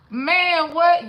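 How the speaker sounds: loud, high exclamation; hyped reaction to the song; excited outburst. Real, not acted. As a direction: shout it out in disbelief.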